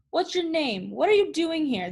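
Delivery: put-on furious foreman catching a boy at the fence; hollering foreman. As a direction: holler at the trespassing kid. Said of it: "the foreman hollered".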